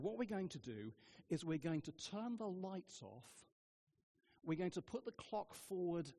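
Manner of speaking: quietly plotting to sneak out. Retold or imitated. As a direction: hush it like a secret plot. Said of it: "I said very quietly".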